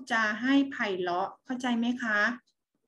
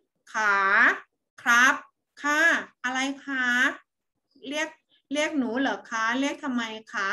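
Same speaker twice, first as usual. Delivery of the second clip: polite reply. Shown as a demonstration. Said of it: "เราต้องพูด".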